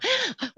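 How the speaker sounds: short high, soft gasp; quick imitated struggling breath. Sudah yang, udah nggak bisa nafas.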